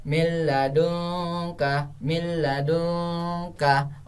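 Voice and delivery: "min ladunka" slowly chanted with a held doubled L; idgham reading demo. Shown as a demonstration. Teacher showing how it is read, "min ladunka" slow and drawn out. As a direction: draw out "min ladunka", N folded into L. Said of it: "bacanya seperti ini".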